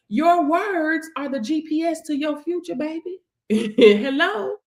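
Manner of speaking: ordinary talk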